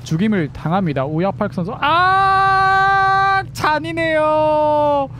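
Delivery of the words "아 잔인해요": drawn-out wail. Real, not acted. Caster wails at a brutal kill.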